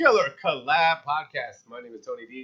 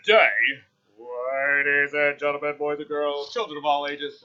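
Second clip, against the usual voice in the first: ringmaster; 3 semitones lower, 4 dB quieter than usual. Pretend. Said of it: "No, okay".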